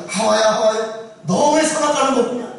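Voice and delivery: lightly voiced God confronting Eve; God questioning Eve. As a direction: call out, then demand why. God calls Eve to account.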